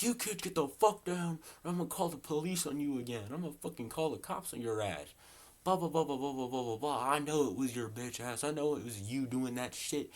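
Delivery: high-pitched, ranting grumpy man; mimicked angry old guy shouting threats; angry neighbor. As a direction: rant at the kids like a fed-up office owner. Angry office owner yelling at kids.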